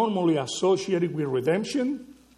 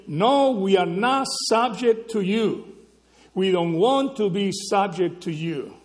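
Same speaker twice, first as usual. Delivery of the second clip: raised, louder voice of rebellious people refusing authority; defiant rebels; 3 semitones higher, 5 dB louder than usual. Acted. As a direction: throw it back as defiant rebels.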